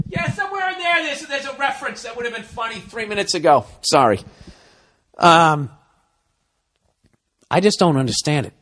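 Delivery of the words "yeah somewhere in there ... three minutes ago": mock silly voice. Self-mocking aside in put-on voice.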